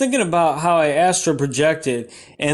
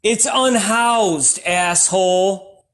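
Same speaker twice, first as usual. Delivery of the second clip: 1 snarky sign; much slower than usual. Retold or imitated. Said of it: "And the sign said".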